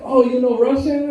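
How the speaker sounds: high-pitched questioning creeper; creepy player in mock surprise. Creeper tries another language on someone, high mock-surprised question. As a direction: pitch it up like an eager pick-up artist. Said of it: "imagine a multilingual creeper".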